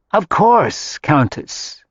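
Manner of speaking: lightly voiced polite cook. A narrator's reading. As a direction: answer politely without batting an eye. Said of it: "Marya said politely".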